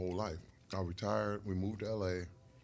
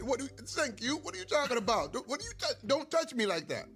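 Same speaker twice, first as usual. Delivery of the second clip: high-pitched, indignant sputter; retold anger; 12 semitones higher than usual. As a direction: protest the touch, tripping over your words.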